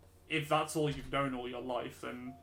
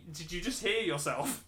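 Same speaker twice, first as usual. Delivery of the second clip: higher, amused disbelief; incredulous; 4 semitones higher, 4 dB louder than usual. Retold or imitated. Lad answering friend's Cockney mum who denies her accent, incredulous. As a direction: retort in mock disbelief, pitch lifted.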